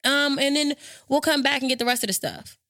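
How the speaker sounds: high, breezy mock client, not mad at all. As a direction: toss it off like it's no big deal. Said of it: "not mad, nothing".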